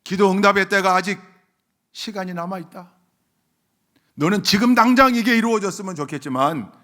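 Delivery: loud, high proclamation; forceful preaching. Acted. Preacher speaking God's answer to the waiting, forceful preaching.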